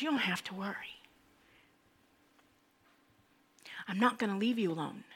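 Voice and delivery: softly reassuring, unhurried pauses between lines; mildly tender, speaking as comforter; gentle reassurance. Acted. Jesus to his confused disciples about being left alone, gently reassuring.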